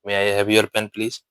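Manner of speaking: very slow, gentle polite question; very respectful. Shown as a demonstration. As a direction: ask with great respect, drawn out. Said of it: "ज्यादा ही respect के साथ बोलना है". (बहुत धीमे, आदर भरे स्वर में)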